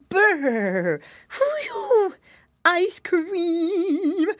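put-on high piggy boy exclaiming. A narrator's reading. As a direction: squeal it out like a chilly kid. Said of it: "exclaimed Curly".

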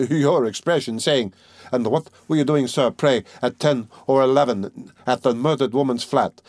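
lively, lightly acted wily examining lawyer; lightly voiced Porfiry, needling. Examining lawyer goading his suspect, animated and needling. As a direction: argue with teasing animation, pitch rising on key words.

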